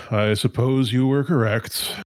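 slow, calm guard voice. Acted. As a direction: answer slowly and evenly as a guard. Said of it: "He's so calm".

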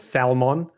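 "Salmon" with the L sounded; mock correction. Shown as a demonstration. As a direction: say "Salmon" as sal-mon, stressing both syllables. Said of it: "it's pronounced Salmon".

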